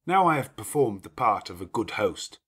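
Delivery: a lordly host giving orders at ease; gruff master of the house. Acted. Rochester speaks to Jane.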